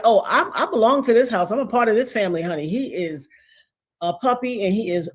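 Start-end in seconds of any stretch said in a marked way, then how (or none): 0.0-2.7 high, playful voicing of the pet dog; dog's voice. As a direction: speak for the puppy, high and cheeky. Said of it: "he like".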